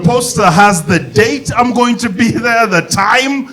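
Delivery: high exasperated retort. Retold or imitated. Stand-up quoting own exasperated reply.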